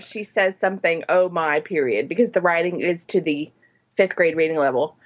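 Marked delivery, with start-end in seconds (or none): 1.1-1.6 lower-pitched catchphrase impression; George Takei. Reader quotes the book's italics, lightly imitating the actor. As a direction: drop the voice on both words. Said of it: "read it in George Takei's voice".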